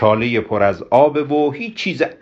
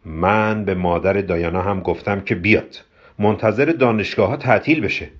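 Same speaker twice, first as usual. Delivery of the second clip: measured, earnest statement; very serious. Acted. Kobra explains Diana's mother was invited, very serious. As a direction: state it soberly and firmly. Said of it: "خیلی جدی گفت".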